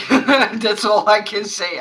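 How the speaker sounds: slow, laugh-soaked words. Real, not acted. Wrapping up the video while still laughing helplessly. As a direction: barely get it out through the giggles. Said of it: "I can't stop laughing".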